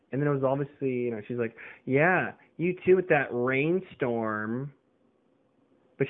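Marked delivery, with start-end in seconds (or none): 1.9-4.7 condescending. Retold or imitated. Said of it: "she said it like, condescending".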